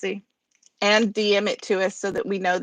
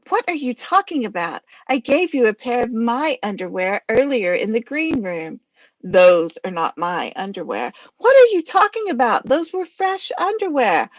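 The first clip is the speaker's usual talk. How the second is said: two-voice skit argument. Acted. Reading a skit alone, arguing as Gilda and Godzilla. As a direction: bicker back and forth in two voices. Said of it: "Harry was gonna do Gilda's voice".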